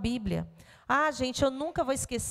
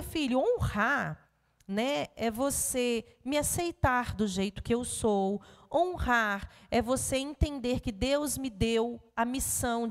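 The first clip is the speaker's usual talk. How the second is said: gentle explaining; 3 semitones lower, slower than usual. Retold or imitated. Mother explains gently to son.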